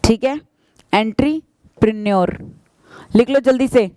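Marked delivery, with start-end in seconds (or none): 0.9-2.4 slow, careful "एंटरप्रेन्योर" as en-tri-pri-nior; careful model pronunciation. Shown as a demonstration. Teacher to students, repeating the word slowly to copy. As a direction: draw out "एंटरप्रेन्योर" slowly so the class can copy it. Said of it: "pronunciation होती है".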